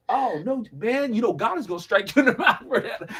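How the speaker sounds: amused, half-laughing pity; mock pity. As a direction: tease him with fake sympathy. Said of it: "Or I don't know if it was like".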